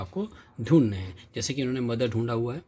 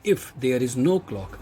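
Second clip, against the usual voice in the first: slow reading; much slower than usual. Shown as a demonstration. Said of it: "और वो कहता है".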